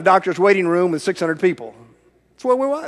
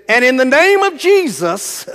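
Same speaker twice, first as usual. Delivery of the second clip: rising, louder call on the name of Jesus; prayer climax cry; 6 semitones higher, 4 dB louder than usual. Retold or imitated. Pastor praying over the girl, cries out the name loudly. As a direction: ring out the name like the peak of a prayer.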